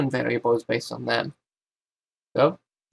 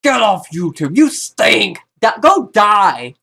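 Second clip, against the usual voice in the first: a touch louder, lightly voiced hater; mock troll comment; 6 semitones higher, 5 dB louder, slower than usual. Vlogger imitating bad commenters, milder mock yell. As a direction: toss off a hater's insult, half-hammed. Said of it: "the bad people would normally say".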